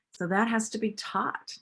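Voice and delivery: ordinary delivery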